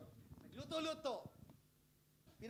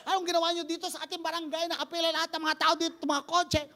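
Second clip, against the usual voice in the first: amazed barangay captain; 8 semitones higher, 6 dB louder, faster than usual. Retold or imitated. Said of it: "Sabi ng barangay captain".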